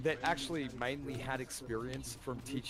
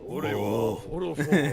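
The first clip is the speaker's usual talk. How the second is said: laughing imitation; 9 dB louder, slower than usual.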